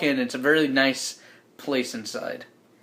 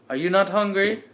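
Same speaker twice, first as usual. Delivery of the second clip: higher put-on British voice; best British accent; 6 semitones higher, 4 dB louder than usual. British host asking his guest, put-on British accent. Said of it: "It's my best British accent".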